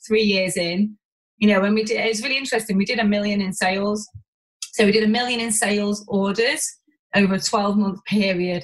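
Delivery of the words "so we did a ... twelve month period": measured delivery, making each detail clear; slow, deliberate. Real, not acted. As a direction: spell out "sales orders" slowly and carefully. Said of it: "have to say this slowly".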